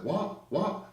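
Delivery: imitating the driver's protest, voice jumping high; indignant high what. Driver protests being told to leave, mock indignant high.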